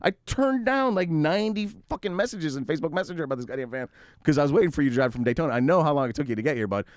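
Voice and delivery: exasperated rant. Retold or imitated. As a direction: seller blowing up at the buyer who wasted his time. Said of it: "And I'm like".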